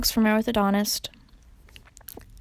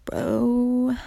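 surfer dude; 4 dB louder, much slower than usual. Pretend. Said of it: "the basic surfer term".

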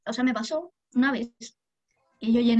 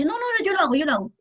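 higher insistent customer voice; imitating customer; 6 semitones higher, faster than usual. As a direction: mimic the customer brushing her off. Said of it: "me dice".

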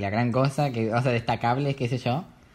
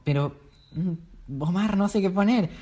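quejándose; 6 semitones higher than usual. Retold or imitated. Himself whining to dad.

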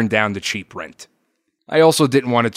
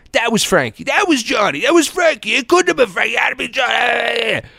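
heated argument; 13 semitones higher than usual. Retold or imitated. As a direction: replay the shouting match with rising heat. Retold heated father-son argument.

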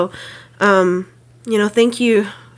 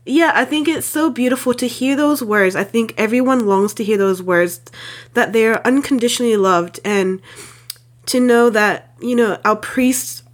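ugly crying. Real, not acted. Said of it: "I'm, like, ugly crying right now".

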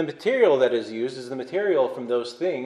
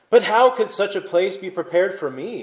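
resentful tremor; 7 semitones higher than usual. Acted. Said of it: "with a resentful tremor in his voice".

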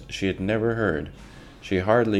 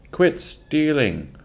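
much higher, louder, slow shout; 9 semitones higher, 5 dB louder, slower than usual. Acted. Workers shout at Pa, accusing him, loud. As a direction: jeer it from the mob. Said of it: "The voices shouted again".

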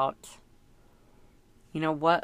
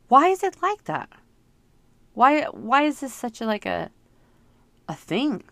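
high, loud, fed-up why; exasperated outcry; 6 semitones higher, 5 dB louder than usual. Real, not acted. Parent venting to viewers, loud and exasperated. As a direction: cry out in real exasperation.

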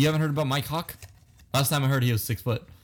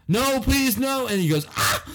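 mock pleading; 10 semitones higher than usual. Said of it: "I Don't Have Soap said".

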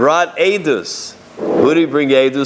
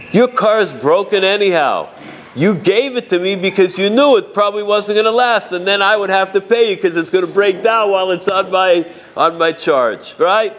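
mock indignant father-in-law; 5 semitones higher than usual. Father-in-law argues about broken car.

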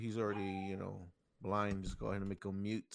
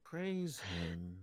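mock cult preacher; 5 semitones lower, 4 dB quieter than usual. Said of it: "We're like in a cult".

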